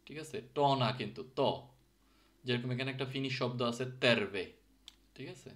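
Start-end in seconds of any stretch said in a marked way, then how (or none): 0.6-1.4 teacher contrasting ট with ত; Finnish T sound. Shown as a demonstration. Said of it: "টিটা normally ত এর মতো উচ্চারণ হবে". 4.0-4.5 teacher's demo of "তেরবে", t as Bengali ত; Finnish pronunciation. Shown as a demonstration. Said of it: "টিটা ত এর মতো করে উচ্চারণ হচ্ছে".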